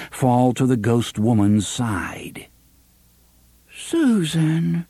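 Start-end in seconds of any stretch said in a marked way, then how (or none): 3.7-4.9 small, hurt voice. Acted. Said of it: "in a small, hurt voice".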